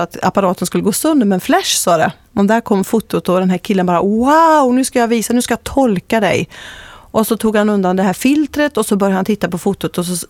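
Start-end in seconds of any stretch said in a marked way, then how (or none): 4.0-6.5 a burst of wonder, then an eager rush; amazed, raised-pitch gush; excited exclamation. Retold or imitated. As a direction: gush like he's thrilled with the photo. Man marvels at aura photo.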